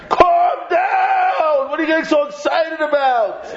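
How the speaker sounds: high, drawn-out cry of complaint; exasperated protest. Acted. Objector scolding an excited Torah learner, exasperated high cry. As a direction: call out in protest, stretching the words.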